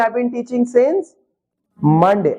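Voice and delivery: spelled out word by word, very slow; slow model sentence. Shown as a demonstration. Teacher dictating to students, very slow and clear. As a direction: dictate it slowly to the class. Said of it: "तो कैसे बोलेंगे?".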